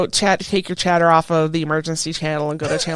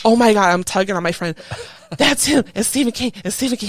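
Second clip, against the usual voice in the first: starstruck; 3 semitones higher than usual. Retold or imitated. Starstruck on spotting Stephen King.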